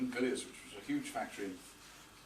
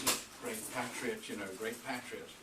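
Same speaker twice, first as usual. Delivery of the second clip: put-on Brummie accent; 2 semitones lower, 5 dB quieter than usual. Retelling the chap's praise of Vale Onslow in a light Brummie accent. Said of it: "in his deep Brummie accent".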